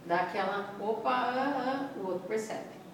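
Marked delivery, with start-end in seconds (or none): 0.8-2.0 long drawn-out, faltering filler; demonstrating a hesitant wobble; acted hesitation. Shown as a demonstration. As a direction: stall slowly as if unsure. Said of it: "O que que é hesitar?".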